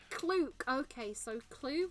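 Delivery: "Clue" closed with a K; final K sound. Shown as a demonstration. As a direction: end "Clue" on a hard K sound. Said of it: "Clue with the K sound".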